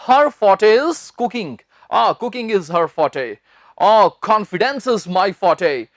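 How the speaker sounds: very drawn-out examples; slow example lines. Shown as a demonstration. Teacher modelling everyday sentences. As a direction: speak each example slowly. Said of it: "हम अक्सर बोल देते हैं".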